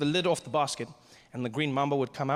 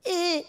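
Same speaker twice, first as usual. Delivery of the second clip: imitated squeak of a man being crushed; high squeezed squeal; 14 semitones higher, 3 dB louder than usual. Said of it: "he'd make a sound".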